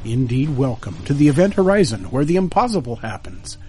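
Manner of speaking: bright, lifted show-opening voice; radio host intro. Acted.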